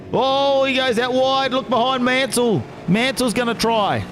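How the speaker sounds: excited. Real, not acted. Overtake moment in the race.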